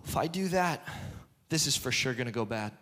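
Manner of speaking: low, hurried inner voice of doubt; mildly anxious muttering to oneself; fearful self-talk. Acted. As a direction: talk yourself out of it, voice kept down. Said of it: "That's fear. Fear talks to you".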